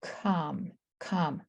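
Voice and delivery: "com" said alone, stretched; isolated syllable. Shown as a demonstration. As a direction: sound out "com" as its own chunk. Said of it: "and then the next syllable".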